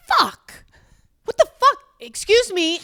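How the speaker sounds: cursing at the security line when her bag is pulled; panicked curse. Retold or imitated. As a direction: blurt it in alarm. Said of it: "And I say".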